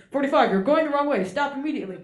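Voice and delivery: loud stern radio warning; alarm warning voice. Retold or imitated. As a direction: bark the warning at the pilot. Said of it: "the voice goes".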